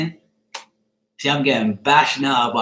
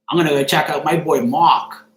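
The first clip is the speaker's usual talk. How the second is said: demonstrated Bermudian talk; Bermudian accent. Shown as a demonstration. Showing how locals mention a friend, Bermudian accent. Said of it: "That's how they talk".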